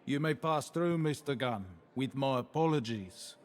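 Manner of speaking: put-on a South African accent, measured and polite. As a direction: speak with a South African lilt. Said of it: "What accent is that?".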